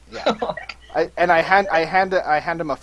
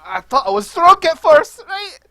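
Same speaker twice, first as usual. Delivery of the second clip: high, loud burst of astonishment; amazed disbelief; 11 semitones higher, 5 dB louder, slower than usual. Acted. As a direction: exclaim in acted amazement. Player's character amazed at flying ship.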